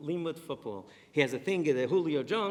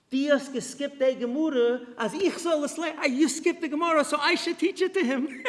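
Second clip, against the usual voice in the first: put-on high, loud thick Hasidic accent; father on the phone explaining, thick Hasidic accent; 13 semitones higher, 8 dB louder than usual. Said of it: "with the thick Chassid".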